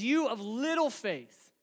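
high, loud, pleading voice of Jesus; Jesus rebuking. Acted. Jesus challenging his frightened disciples, high and loud. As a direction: press the disciples with each question. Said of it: "Jesus looked at the disciples and says".

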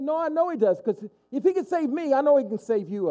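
high-pitched, insistent assurance; earnest conviction. Acted. New convert answers his doubting sister, earnest conviction. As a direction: answer the doubt with urgent certainty.

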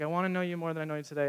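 rushed, fast second take of the prayer; fast repeat. Shown as a demonstration. Pastor repeating the model prayer, fast and eager. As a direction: tumble the words out quickly. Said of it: "Just say".

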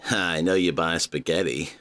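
low, menacing imitation of the ad voice; mock a creepy surveillance voice; mimicking the smug watch narrator, low and creepy. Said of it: "that guy does sound creepy".

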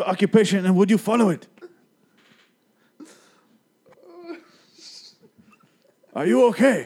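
giggly high game show host; overeager flirty giggling. Acted. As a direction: ask through barely held giggles.

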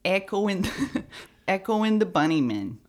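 attempted Midwestern accent; tentative stab at Midwestern vowels. Shown as a demonstration. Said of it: "I don't know how to do a Midwestern".

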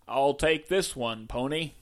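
put-on Texas accent. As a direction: play at being a Texan cowboy. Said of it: "Can you do a Texas accent?".

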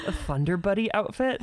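rising, puzzled reread; puzzled question. Real, not acted. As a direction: ask it back in confusion. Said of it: "I don't know what that means".

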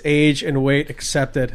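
slow, even machine readout; robotic machine voice. Retold or imitated. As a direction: read it like a gym machine talking. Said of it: "and it says".

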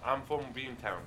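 weak attempt at a Boston accent. Shown as a demonstration. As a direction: try a Boston accent and miss. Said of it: "No, that's not great".

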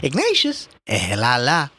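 a lament that starts high and drops; sadly. Acted. Mother lamenting her unmarried son, sadly. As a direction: sigh over your son, mildly sad. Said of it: "Miss Riley said sadly".

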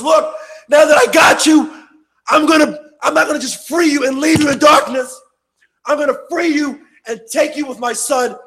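loud, high proclaiming voice; Christ voiced with fervour. Christ promising the freed sinner his kingdom, loud and fervent. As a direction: declare it as a promise to the church. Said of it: "He says".

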